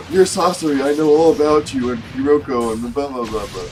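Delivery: loud, high eager know-it-all; nerd voice. Pretend. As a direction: rattle it off like an excited nerd. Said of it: "a nerd that's like".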